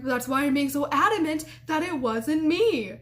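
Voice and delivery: emphatic imitation of an insistent roommate; adamant. Roommate denying she was in there, adamant insistence. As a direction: lean hard on the key words, mock-adamant. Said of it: "she just goes from this to".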